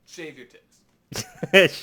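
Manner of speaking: shouted slowly for the punchline; loud slow punchline. Acted. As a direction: bellow each word slowly. Topping the joke, loud.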